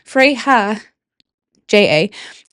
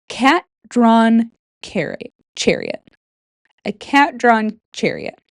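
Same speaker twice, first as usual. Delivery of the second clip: slow careful tongue twister; slower than usual. Shown as a demonstration. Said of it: "Say that five times fast".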